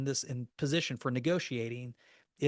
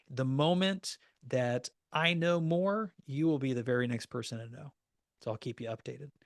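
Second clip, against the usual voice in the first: reassuring promise. Shown as a demonstration. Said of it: "I could also say".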